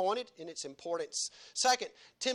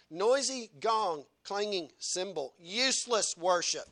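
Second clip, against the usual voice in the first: each word of "Noisy gong, clanging cymbal" drawn out slowly; preacher repeating "Noisy gong" slowly for weight; slow emphatic; slower than usual. Shown as a demonstration. Preacher hammers the verse home, slow and emphatic.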